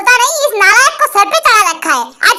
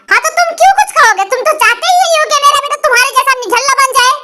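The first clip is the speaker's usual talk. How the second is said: higher, fast scolding tirade; fast angry rant; 4 semitones higher, faster than usual. Acted. Wife berating her husband, fast and higher. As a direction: rattle off the accusations at him.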